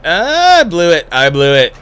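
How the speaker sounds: high, loud cry of self-blame; dismayed outburst. Real, not acted. Player botching a move, dismayed outburst.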